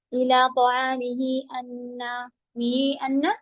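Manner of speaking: इला तआमिही अन्ना run together slowly; wrong recitation. Shown as a demonstration. Teacher showing the wrong reading, slow. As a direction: read it joined, without the madd. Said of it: "गलत हो जाएगा".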